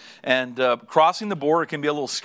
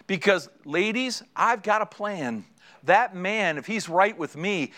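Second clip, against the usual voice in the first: gently persuade, with a touch of lift in pitch; Jesus; 3 semitones higher than usual. Acted. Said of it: "When Jesus says to you ladies".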